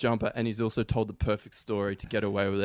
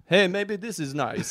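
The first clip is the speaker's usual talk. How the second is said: put-on bored old man; 7 semitones higher, slower than usual. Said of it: "who's bored, is just like".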